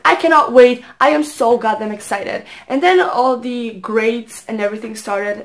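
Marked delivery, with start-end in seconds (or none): 0.1-2.4 eager. Retold or imitated. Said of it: "I was like".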